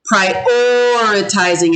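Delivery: "prioritizing" slow, OR held very long; drawn-out O. Shown as a demonstration. Teacher asks first or second vowel, "prioritizing" with long-held OR. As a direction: stretch the O in "prioritizing". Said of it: "It has a O sound".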